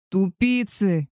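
slow drawn-out angry yell. Acted. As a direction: stretch the insult out, slow and angry. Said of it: "продолжил орать мой волк". (медленный протяжный злой крик)

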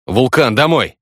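high, loud call to the dog; shout. A narrator's reading. Narrator yells at the dog to run home, loud command. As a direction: yell the dog's name to send him home. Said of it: "кричу".

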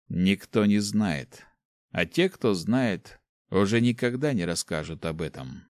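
slow, grave repetition, "не" stressed; dark mage. Acted. Dark mage warning the student, slow and grave.

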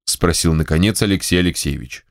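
plain reading voice

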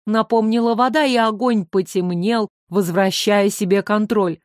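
ordinary delivery

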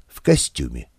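usual speaking voice

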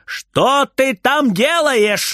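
high, slow shout from afar; calling out. Acted. Grandma shouting from the kitchen at Frieder, high and slow. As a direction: call through the wall, stretching each word. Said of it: "снова кричит бабушка из кухни".

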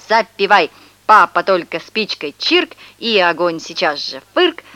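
lightly voiced commander giving brisk orders; playful commander. Boy playing sailor orders chairs and pans about, mock commander. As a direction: play at ordering kitchenware about like troops.

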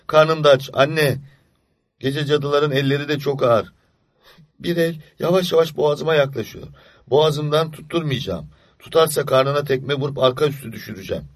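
put-on a child whispering fears to himself in the dark; frightened child. Boy hiding from night witches under the quilt, frightened.

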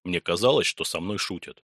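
plain reading voice

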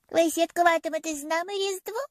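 put-on a sweet child asking shyly; shy little girl. A narrator's reading. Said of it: "з наймилішим у світі нью-йоркським акцентом".

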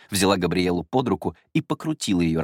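plain reading voice

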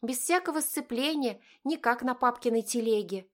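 put-on high, bright-eyed girlish chatter; excited girl. A narrator's reading. Girl comparing the jeep to dad's cart, high voice. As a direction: gush like a thrilled teen.

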